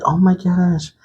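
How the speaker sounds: lightly voiced nosy fan; curious viewer. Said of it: "So you're like".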